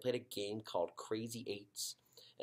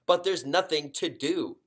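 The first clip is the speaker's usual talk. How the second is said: higher, louder whine; girl whining to her dad, higher; 7 semitones higher, 10 dB louder than usual. Acted. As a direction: complain like a bored girl. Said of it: "Dealey whined".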